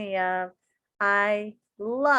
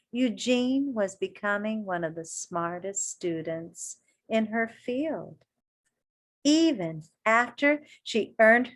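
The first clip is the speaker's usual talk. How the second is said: put-on reading to children. A narrator's reading. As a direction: read it to a circle of kids. Reading picture book aloud.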